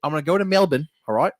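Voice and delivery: a mock Brit rambling about Australia; British cursing. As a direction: keep the hammed-up Brit going. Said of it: "Can you just do a line of cursing?".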